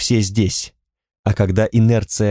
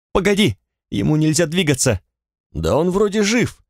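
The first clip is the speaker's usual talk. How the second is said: higher, hurried alarm; a woman panics beside the injured stranger, higher; 6 semitones higher than usual. Acted. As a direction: voice the panic after the crash. Panicked argument after accident.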